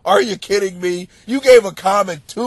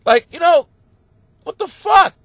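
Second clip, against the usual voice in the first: much higher and louder, a jokey outburst; host ranting to listeners, higher and louder outburst; exclaiming; 13 semitones higher, 7 dB louder than usual. Real, not acted. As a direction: throw up your hands, loud and high. Outraged joking exclamation.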